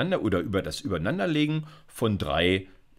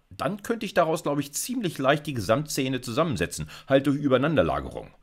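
higher, dreamy wishing tone; wishful thinking; 4 semitones higher than usual. Pretend. Lecturer imagines ready-made functions, wistful higher voice. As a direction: muse as if hoping someone already did the work. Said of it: "Programmieren mit Wunschdenken".

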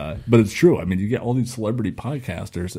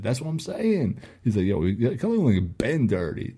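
a hint of Draymond agreeing with his co-host; light impression of a player piling on; Draymond Green impression. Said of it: "my impression game right now".

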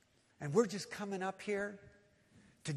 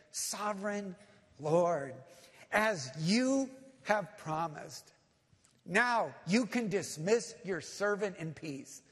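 slow, emphatic acted prayer of praise; bursting into praise; 5 dB louder, slower than usual. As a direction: proclaim it to God, word by word. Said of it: "he just busts out in praise".

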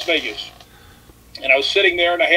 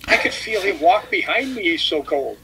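put-on hushed girl voice; 5 dB quieter than usual. Girl feeling Rick pass behind her, in a hushed spooked tone. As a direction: hush it like she felt a chill. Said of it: "She goes".

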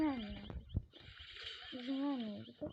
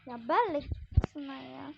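yelling at teammates; 3 semitones higher, 7 dB louder than usual. Real, not acted. Gamer yells at teammates to go, urgent. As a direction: shout orders at the team.

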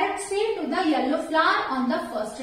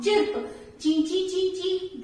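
imitating bird chirps; much faster than usual. Shown as a demonstration. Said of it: "chirping sound".

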